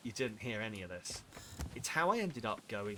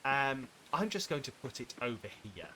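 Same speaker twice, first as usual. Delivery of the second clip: polite thanks. Retold or imitated. Imitating a gracious guest accepting food she dislikes. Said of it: "I would just be politely go".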